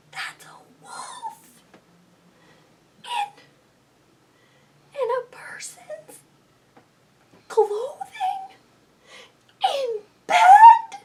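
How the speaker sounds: breathless scared whisper; hush, don't wake the wolf. Acted. Spots the wolf in bed.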